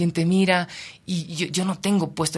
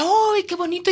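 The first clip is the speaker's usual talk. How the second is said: high, loud delighted cry; excited; 13 semitones higher, 5 dB louder than usual. Retold or imitated. People on the boat exclaiming, high and loud. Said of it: "la gente decía".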